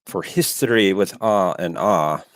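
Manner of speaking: slow, put-on show tagline voice; Loki imitation. Host copying a colleague's show line, slow imitation. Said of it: "I can't do it as well as Loki".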